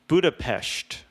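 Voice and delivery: "Budapest" with an sh before the t; Budapesht pronunciation. Shown as a demonstration. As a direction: say "Budapest" as Budapesht, Sean Connery style. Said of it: "kinda like Sean Connery".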